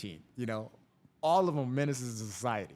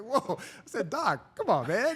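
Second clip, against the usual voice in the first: high, loud mock alarm; retold startled objection, pitched up; grossed-out protest; 11 semitones higher, 6 dB louder, slower than usual. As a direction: recoil and complain to the doctor. Retold protest at flying flesh.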